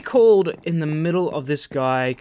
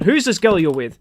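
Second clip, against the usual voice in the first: louder mock-accusing girlfriend; jealous accusation; 3 semitones higher, 6 dB louder than usual. Jealous girlfriend suspecting an affair, accusing. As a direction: demand it like a jealous partner. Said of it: "this is how jealous she would be".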